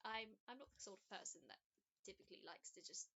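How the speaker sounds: a hint of a kindly, unsure old woman; elderly woman. Elizabeth declines gifts.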